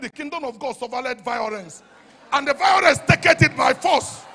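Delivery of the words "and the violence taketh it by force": shouted, high and loud, slowing down; preaching climax. Real, not acted. Preacher to the congregation, full-force shout. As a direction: drive it home with force.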